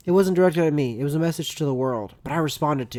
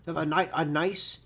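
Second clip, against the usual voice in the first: higher-pitched mock delight, slowing on the food; mock relish; 4 semitones higher than usual. Imitating a raw-egg eater in mock delight. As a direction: savour it with exaggerated relish.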